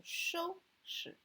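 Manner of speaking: slow, high 收 with a light 拾; 拾 dropped short after level 收; light second syllable. Shown as a demonstration. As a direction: draw out 收 high, keep 拾 toneless. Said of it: "read it very slightly".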